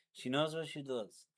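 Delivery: put-on bragging about his young girlfriend, lightly accented; mock Hispanic accent. Boyfriend showing off his girlfriend in a mock Hispanic accent. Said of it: "I'm done with that accent".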